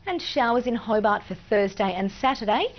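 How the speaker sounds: even, measured forecast delivery; walk viewers through the weather; weather forecast read. Acted. Presenter reading the state forecast, weather read.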